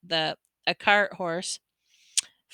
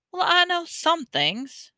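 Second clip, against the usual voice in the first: put-on young Harry; 10 semitones higher, slower than usual. A narrator's reading. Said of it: "Harry said".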